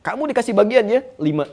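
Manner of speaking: a hint of a commander's phone call. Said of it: "ditelepon sama komandannya".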